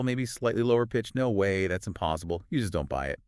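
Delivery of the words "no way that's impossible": flatter, dropping tone, not buying it; skeptical disbelief. Shown as a demonstration. Hearing an impossible claim from a friend, skeptical and flat. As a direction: say it like you don't believe a word. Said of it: "probably more like skeptical".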